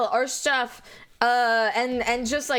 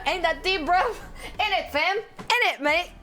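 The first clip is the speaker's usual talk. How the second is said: attempted British accent; 3 semitones higher than usual. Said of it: "in the best British accent".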